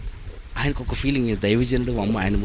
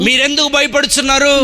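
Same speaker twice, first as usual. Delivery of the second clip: voicing Jesus; 10 semitones higher, 4 dB louder than usual. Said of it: "ఏం చెప్పాడు చూడండి".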